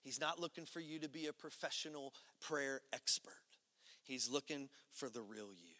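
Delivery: soft whisper; hushed pastoral whisper. Real, not acted. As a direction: whisper it close to the listener.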